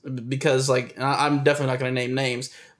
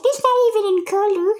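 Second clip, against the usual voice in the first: very high inner-critic nag with laughter; very high, laughing voice of the inner critic; nagging inner voice, laughing; 4 dB louder than usual. Retold or imitated. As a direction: whine at yourself like a pushy little voice. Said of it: "And it's like".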